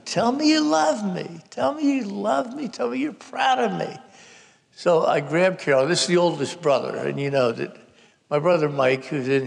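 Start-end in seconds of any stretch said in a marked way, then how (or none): 0.0-4.0 high, insistent mock scream, little added volume; high-pitched frantic pleading; retold screaming. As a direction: imitate her demanding it over and over. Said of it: "she is screaming over and over again".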